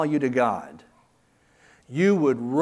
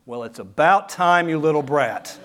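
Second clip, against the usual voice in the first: a hammed-up rude answer to a child; mock harsh retort; 5 dB louder than usual. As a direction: snap it like a fed-up parent, laughing. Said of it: "Do you say".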